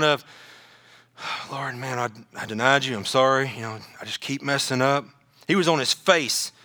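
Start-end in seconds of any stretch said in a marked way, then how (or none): 1.5-5.0 understated, subdued confession; mild contrition. Acted. Peter praying to the Lord after denying him, mildly contrite. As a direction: confess quietly, a touch ashamed. Peter's repentant prayer, acted.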